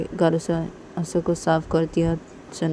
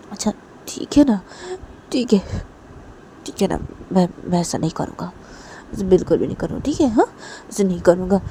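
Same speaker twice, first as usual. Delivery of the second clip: apologetic Disha; faster than usual. Acted. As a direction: promise earnestly, stressing each refusal.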